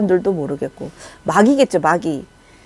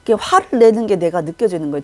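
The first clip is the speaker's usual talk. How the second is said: usual speaking voice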